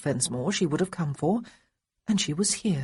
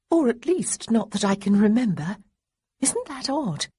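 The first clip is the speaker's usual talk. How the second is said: put-on a touch higher, nervous young lady; gently hurried, unsure young woman; lightly voiced young woman; 5 semitones higher than usual. A narrator's reading. Young woman to feverish Marcus, lightly nervous.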